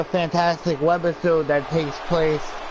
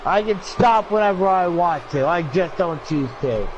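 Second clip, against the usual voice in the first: put-on drunk and angry; 4 semitones higher than usual. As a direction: argue back like a belligerent drunk. Drunk character argues back.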